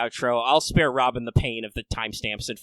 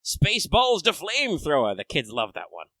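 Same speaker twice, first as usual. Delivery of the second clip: movie quote; 4 semitones higher than usual. Acted. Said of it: "quote Spaceballs".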